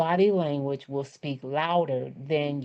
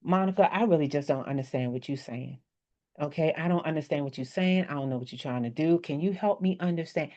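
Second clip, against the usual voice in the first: lower, softer, pointedly defensive; 3 semitones lower, 3 dB quieter than usual. Shown as a demonstration. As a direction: sound ready for a fight while staying polite. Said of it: "that sound defensive".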